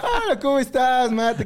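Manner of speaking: high, drawn-out friendly hello; amiable boss greeting. Retold or imitated. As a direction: imitate a delighted, kindly boss. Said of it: "siempre fue muy amable".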